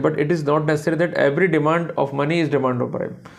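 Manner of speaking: very slow, every word separate; slow dictation. Shown as a demonstration. Lawyer stating the principle to colleagues, slow and deliberate. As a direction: let them write it down word by word.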